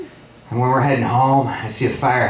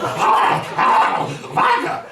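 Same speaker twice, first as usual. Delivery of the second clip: higher, drawn-out rabid-dog rasp; 5 semitones higher, much slower than usual. Retold or imitated. Drunk buddy licking vodka off the stove, like a rabid dog. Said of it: "licks it up like a rabid dog".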